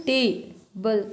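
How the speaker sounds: "टेबल" broken after a long "टे"; first-syllable stress. Shown as a demonstration. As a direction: lean on "टे" in "टेबल", let "बल" follow separately. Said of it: "पहले वाले में आपने ज़्यादा स्ट्रेस दिया है". ("टेबल" में पहले हिस्से पर ज़ोर)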